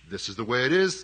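loud, distinct and commanding. Shown as a demonstration. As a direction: lay it down firmly, like a ruling. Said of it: "that very commanding, distinct".

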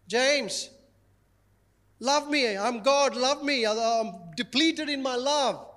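mild mock whine, begging to be loved; pleading needy God parody. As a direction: ham up a desperate, needy plea for love. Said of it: "That's Kelly saying that now".

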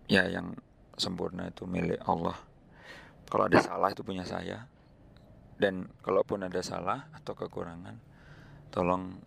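slightly hoarse, worn voice. Real, not acted. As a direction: speak with a bit of a hoarse throat. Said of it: "suara saya agak serak hari ini".

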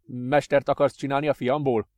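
father's disbelieving question; incredulous. Acted. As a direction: ask it in disbelief.

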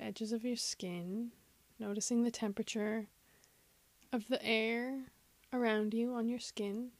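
measured meditation voice, long silences between phrases; guided meditation. Acted. Host guiding listeners to follow the breath, guided meditation. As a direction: lead them patiently through body and breath.

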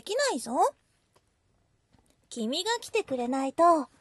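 big sister voice. Acted. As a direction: scold then tease like a childhood-friend big sister. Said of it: "お姉さんが。".

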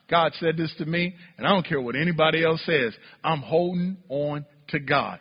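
quiet resolve. Pretend. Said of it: "you decide".

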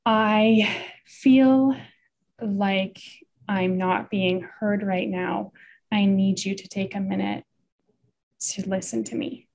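slow, measured and spaced out; gentle startup. Shown as a demonstration. Partner modelling a gentle startup, gentle and measured. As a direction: ease into it gently, with pauses. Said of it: "using gentle startup".

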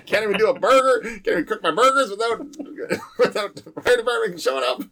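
high-pitched, laughing mock British accent; Carl. British neighbor moaning about the fire department, mock British accent. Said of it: "I can't do his accent".

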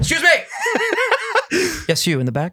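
shouting fan question. Pretend. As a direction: yell it from the back row. Fans shouting questions at convention.

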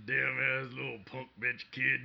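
put-on slow cranky old man voice. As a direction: grumble it like an old geezer. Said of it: "turned into my old man voice".

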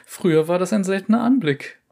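lightly voiced gossiping merchant. Merchant chatting.

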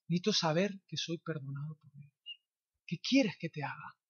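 soft, heartfelt question and answer; hushed, intimate exchange. Acted. Jesus asking, a person needing love answering, hushed. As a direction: let it sink into a quiet confession.

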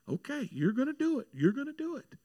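high-pitched retold reply to God; small, high voice talking to God; overwhelmed acceptance. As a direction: imitate her, voice lifted high. Retold woman's awed reply to God.

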